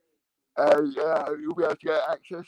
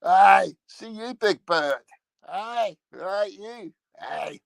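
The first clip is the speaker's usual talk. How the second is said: higher-pitched hammed-up Scottish voice; put-on Scottish accent, raised and playful; mock Scottish accent; 6 semitones higher, 5 dB louder, much slower than usual. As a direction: call out like a Scottish puppet dub. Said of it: "dub it over with Scotch accents".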